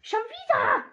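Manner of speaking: high, loud cry of frustration; not again, shouted; exasperated shout. Real, not acted. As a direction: yell it at the screen. Exasperated at repeat bad draw.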